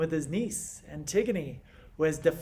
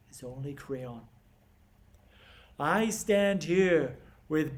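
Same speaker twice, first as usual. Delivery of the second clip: Creon; 2 semitones higher than usual. Acted. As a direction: lecture a proud niece in deliberate, pause-laden phrases. Performs Creon's monologue to Antigone.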